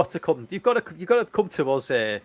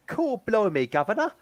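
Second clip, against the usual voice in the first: mock cockney; 6 semitones higher than usual. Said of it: "That was almost as bad as".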